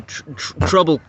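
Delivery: stumbling over the word while worked up; stuttering. Real, not acted. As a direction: trip on the start of trouble. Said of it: "I was kinda stuttering because I'm getting all hyped up".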